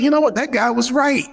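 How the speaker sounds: a founder cheerfully owning the point; amused admission. Retold or imitated. Founder admits franchisee was right.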